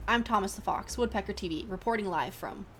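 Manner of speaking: TV news sign-off; reporter voice. Acted. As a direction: close the report like an anchor.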